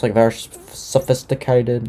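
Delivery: a badly faked posh talker; horrible impression of him. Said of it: "That was a horrible impression".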